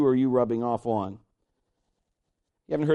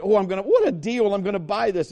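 Kim; 3 semitones higher than usual. Retold or imitated. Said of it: "Kim has had stuff in her hand".

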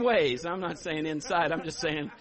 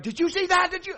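high, loud astonished question; imitated amazed onlookers; 11 semitones higher, 9 dB louder, faster than usual. Churchgoers asking if he saw it, imitated amazed cry. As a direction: burst out like a stunned witness. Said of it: "people are like".

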